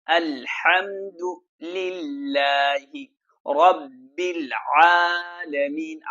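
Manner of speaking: slow, measured tajweed recitation; slow melodic Quran chant. Shown as a demonstration. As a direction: recite it slowly like a qari. Recites verse.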